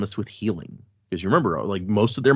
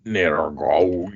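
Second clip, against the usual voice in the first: Welsh accent; 4 semitones lower than usual. Shown as a demonstration. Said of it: "a Welsh accent for this".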